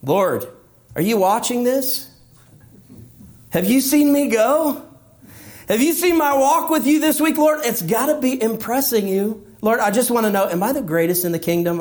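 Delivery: high, eager bragging to the Lord; mock proud believer seeking applause; boastful believer. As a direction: preen and fish for praise, pitch up.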